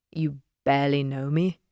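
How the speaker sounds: a hint of a low, teasing Leonid. Leonid teasing narrator, lightly voiced.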